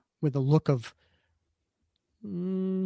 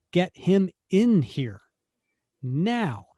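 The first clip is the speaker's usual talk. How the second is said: urgent command; 4 semitones higher, much slower than usual. Acted. Cap orders Sharon mid-rescue.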